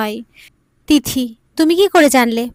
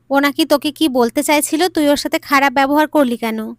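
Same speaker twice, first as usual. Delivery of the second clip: angry father; 2 semitones higher than usual. Retold or imitated. Father scolds son at night.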